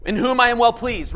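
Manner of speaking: a stately voice from the heavens. Acted. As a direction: proclaim it slowly like God speaking from heaven. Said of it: "a voice comes down from heaven saying what".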